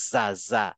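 low demo of জা; teacher models জা low; mid-tongue ja. Shown as a demonstration. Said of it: "মাঝামাঝি জায়গা থেকে উচ্চারণ করবে জা".

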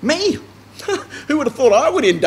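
high disbelieving Me?; a man who can't believe it's him; incredulous Me?. Retold or imitated. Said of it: "maybe incredulous?".

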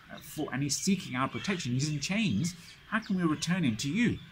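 the Muslims protesting in uproar, rising to a plea; indignant protest. Retold or imitated. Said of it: "there's uproar amongst the Muslims".

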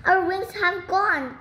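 high, drawn-out storybook exclamation; lifted voice, lingering on the words; joyful cry. A narrator's reading. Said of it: "cried Mister Gong".

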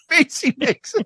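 normal talking voice

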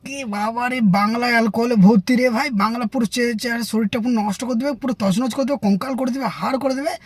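shudder at cheap liquor; mocking friend sneering at country liquor; disgusted snob.

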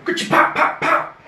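put-on whispered clicks and pops, kid-style; sound effects. Starting to paint, voicing playful ka-cha and pops. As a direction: pop it out like bubbles bursting.

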